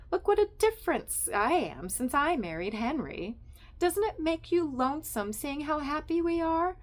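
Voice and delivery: high, bright-voiced nosy wife; chatty Estelle. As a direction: gush at Sylvia like a meddling friend.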